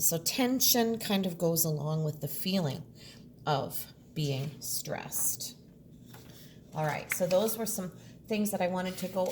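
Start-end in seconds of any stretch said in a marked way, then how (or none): 3.5-5.6 tense breathy whisper, slow; a slow whispered hush. Shown as a demonstration. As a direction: whisper it as if stressed. Teacher acts out stressed feeling.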